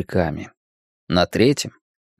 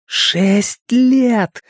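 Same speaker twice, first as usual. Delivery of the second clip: very high, horrified squeal; shriek; 12 semitones higher than usual. A narrator's reading. Richie's mind reacts to the dead boy's age, shrieking. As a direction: squeal it out in panic. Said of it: "взвизгнул его рассудок".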